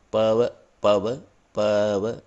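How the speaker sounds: पव said slowly over and over to bring out अव; slow, deliberate पव, पव, पव; repeated sound drill. Shown as a demonstration. Hindi teacher drilling पव for the अव sound. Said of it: "पवन शब्द को जब उच्चारित किया जाए".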